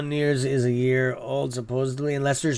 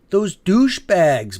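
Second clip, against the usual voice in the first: angry insult; 4 semitones higher, 5 dB louder, slower than usual. Real, not acted. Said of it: "that pisses me off".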